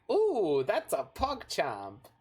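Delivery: slow imitation of a show character; quoting a show reference. Streamer quotes a show he just watched, imitated catchphrase. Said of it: "gotta go with the reference".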